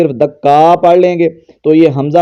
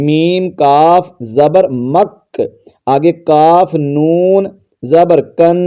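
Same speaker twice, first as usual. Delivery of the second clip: syllable by syllable, slowly; slow tajweed spelling; much slower than usual. Shown as a demonstration. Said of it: "میم کو کاف کے ساتھ".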